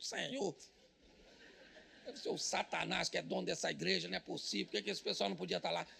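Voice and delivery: grudging prayer. Pretend. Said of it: "eu fico".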